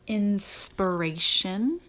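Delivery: Inspiration slow, the second syllable a weak schwa. Shown as a demonstration. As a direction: Inspiration said slowly, reduced middle vowel. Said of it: "that one's going to be a schwa one".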